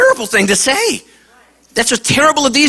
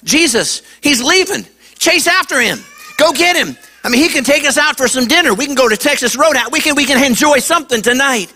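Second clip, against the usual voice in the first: higher, eager disciples pleading to chase the rich man; apostles urging Jesus; 3 semitones higher than usual. Retold or imitated. Disciples urge Jesus to chase the rich man, higher and eager. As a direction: push him to go after the rich man, quick and hopeful. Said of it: "They're like".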